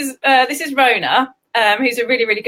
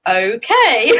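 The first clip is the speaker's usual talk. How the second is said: doubtful reaction. Retold or imitated. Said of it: "it was a bit like".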